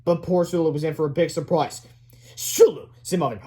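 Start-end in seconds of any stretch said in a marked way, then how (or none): 2.3-2.9 high, loud summons; calling to a pet. A narrator's reading. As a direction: call the name as a command. Boy summons his hamster.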